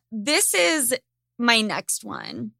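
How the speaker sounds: ordinary talk, nothing marked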